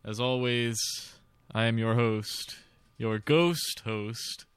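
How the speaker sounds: slow, drawn-out haunted house host; lightly hammed-up ghoulish welcome; slow theatrical villain menace. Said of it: "being spooky".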